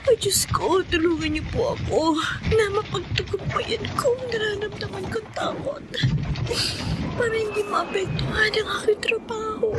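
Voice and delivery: hushed prayer; tearful prayer. Acted. Prays alone in fear.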